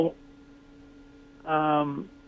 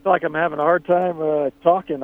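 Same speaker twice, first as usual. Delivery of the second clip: tired, struggling to talk; exhausted from nights without sleep; sleep-deprived; 3 semitones higher than usual. Real, not acted. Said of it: "going on a couple nights of no sleep".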